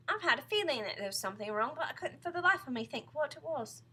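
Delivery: lightly voiced troubled wife; puzzled Mrs Twit.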